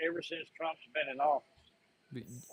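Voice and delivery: garbled, slowed broken audio; bad connection, words dragging; radio breaking up. Real, not acted. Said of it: "Hey, you cut out hard".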